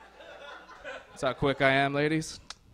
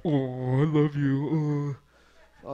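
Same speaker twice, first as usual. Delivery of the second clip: mock lovey couple; much slower than usual. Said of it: "making out on the couch".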